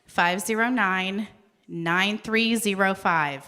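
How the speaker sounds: breathless number reading; reading numbers short of breath. Real, not acted. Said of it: "I'm, like, out of breath".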